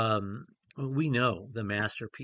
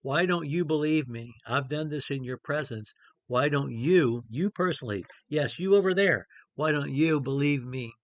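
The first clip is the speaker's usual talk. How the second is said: Jesus calling out one listener by name in front of everyone, rising to a near shout on "yes, you over there"; pointed challenge; 3 semitones higher, 4 dB louder than usual. Acted. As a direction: point a finger at the crowd and demand an answer. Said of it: "he's pointing his finger right in our face".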